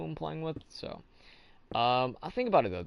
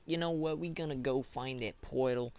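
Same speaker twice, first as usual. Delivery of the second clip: slightly raised, playful character voice; put-on voice; 3 semitones higher than usual. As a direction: slip into a put-on voice to quote the bros. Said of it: "changing my voice".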